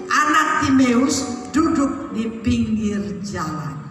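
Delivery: slow, drawn-out reading aloud; measured Bible-reading voice; scripture reading. A narrator's reading. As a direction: read the verse out to a congregation, stretching the last phrases.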